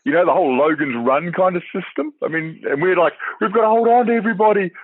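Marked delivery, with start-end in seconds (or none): 3.4-4.7 mock wailing. Australians voiced crying.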